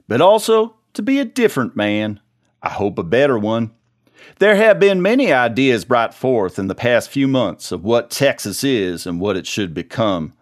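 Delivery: put-on stirring speech in a Texan accent; rally the men like a Texan commander. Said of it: "in my impeccable Texan accent".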